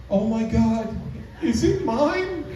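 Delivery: high, slow ditzy question; ditzy girlfriend. Retold or imitated. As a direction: ask it in a high airhead voice.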